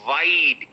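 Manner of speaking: Wide, said with the mouth wide open; open mouth on the vowel. Shown as a demonstration. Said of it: "Bite your valentine".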